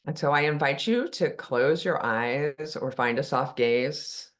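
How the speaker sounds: unhurried guidance with long pauses between phrases; calm meditation guide, phrase by phrase; guided meditation. Real, not acted. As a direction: ease listeners into stillness, leaving long silences. Leads a meditation.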